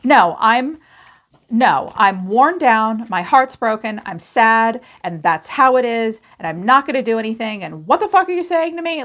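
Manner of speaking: despairing rant. Retold or imitated. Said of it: "this person is like".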